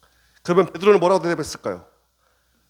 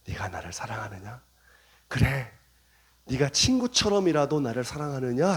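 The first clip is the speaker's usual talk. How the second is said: tender question; 4 semitones lower, 3 dB quieter than usual. Acted. 예수님의 부드러운 질문.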